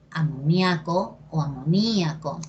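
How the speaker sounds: amoniaco stressed on A, then amoníaco on a split Í; second amoníaco breaks the diphthong with a stressed Í; two accepted stresses. Shown as a demonstration. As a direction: show amo-NIA-co, then amo-NÍ-a-co. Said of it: "depende de ti cómo lo quieras decir".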